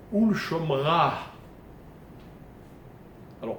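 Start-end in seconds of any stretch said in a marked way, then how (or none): 0.1-1.1 slow "Shomra" with an exhaled h at the end; careful teacher's "Shomra", final h audible; sounded final He. Shown as a demonstration. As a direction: draw out "Shomra" and breathe out its last h. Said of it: "je prononce la consonne d'après".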